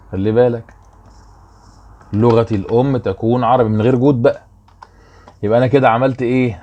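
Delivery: usual speaking voice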